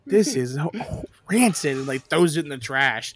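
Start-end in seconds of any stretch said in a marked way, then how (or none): 0.1-1.8 slow, stretched out rancid in disgust; disgusted verdict. Retold or imitated. Ramsay judging a teacher's food, slowly disgusted. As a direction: spit out the word rancid. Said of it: "he's like".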